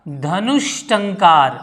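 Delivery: धनुष टंकार drawn out slowly as one phrase; teacher's slow model answer. Shown as a demonstration. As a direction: stretch धनुष टंकार out for the class. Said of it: "क्या हो जाएगा".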